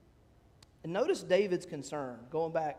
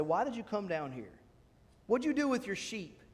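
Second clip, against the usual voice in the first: mildly scornful questioning, rising higher; angry belittling brother; 3 semitones higher than usual. Acted. Oldest brother scolds young David at the battlefield, mildly angry. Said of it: "his anger was aroused".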